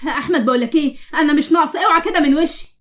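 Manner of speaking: irritated brush-off, rising in pitch at the end; mild scolding. Acted. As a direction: tell a husband off impatiently. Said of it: "تزعقي لأحمد كده".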